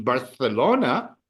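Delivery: "Barcelona" with the c pronounced th; Castilian pronunciation. Shown as a demonstration. Teacher placing students in Spain, Castilian th. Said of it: "But i-, if you're in".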